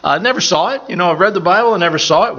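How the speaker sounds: high, mock-incredulous voice; squeaky disbelief, imitating the crowd; incredulous people. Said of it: "And most people say".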